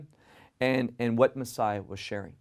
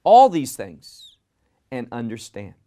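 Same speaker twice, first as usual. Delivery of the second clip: raised, commanding call with weight on "all"; firm command; 7 dB louder than usual. Retold or imitated. Preacher quoting Messiah's words to the crowd, firm command. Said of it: "He gave them a command".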